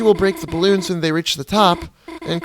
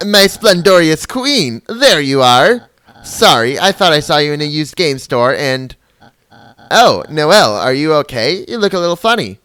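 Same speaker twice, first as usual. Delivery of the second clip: regal villain voice; 2 semitones higher, 6 dB louder than usual. Acted. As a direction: gloat like a grand robot monarch. Queen voiced again.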